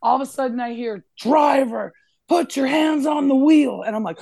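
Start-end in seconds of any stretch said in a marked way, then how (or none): 1.2-3.8 high, forceful mock cop shout; retold police command. State trooper ordering the driver at a stop, retold shouted command. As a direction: call it out like a trooper giving orders.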